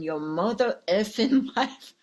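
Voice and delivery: a light put-on tough-guy voice, breaking into a laugh on effing; half-laughing movie-star impression that cracks up midway; Samuel L. Jackson impression. Shown as a demonstration. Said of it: "Picture me, Samuel L. Jackson".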